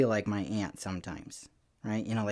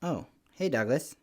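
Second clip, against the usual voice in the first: mildly voiced unbothered greeting; unspooked dad; 3 semitones higher than usual. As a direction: imitate an unfazed dad saying hello. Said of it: "he never gets spooked".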